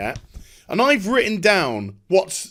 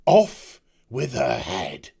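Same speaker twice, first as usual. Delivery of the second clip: mock Queen of Hearts; 11 semitones lower, slower than usual. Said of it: "what the Queen of Hearts says".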